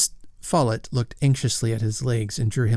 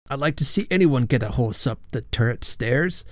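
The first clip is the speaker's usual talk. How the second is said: snorting. Acted. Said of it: "snorted Sir Hugo".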